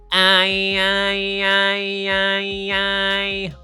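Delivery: high loud nasal whine; as annoying as possible. Shown as a demonstration. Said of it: "as bright and as loud and as annoying as possible".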